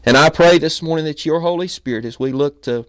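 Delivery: earnest spoken prayer, rising on Dear Lord; fervent preacher's prayer; pastor's prayer. Acted. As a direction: pray aloud for the congregation. Leads the congregation in prayer.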